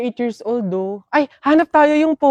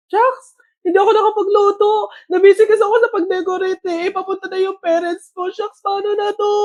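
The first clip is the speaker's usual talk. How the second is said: mock panic; 6 semitones higher than usual. Panicking about no food.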